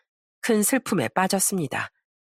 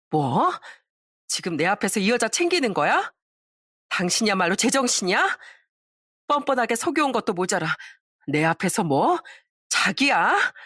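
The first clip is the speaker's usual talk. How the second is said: rising outrage, ending in a shout; betrayed wife losing it; furious confrontation; 2 semitones higher than usual. Acted. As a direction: tear into him, voice breaking up into a yell. Wife confronts cheating husband.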